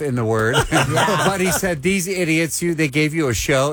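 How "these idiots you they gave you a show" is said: put-on Gerard Butler Scottish accent. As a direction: toss off a hint of a Scottish accent. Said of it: "in his Scottish accent".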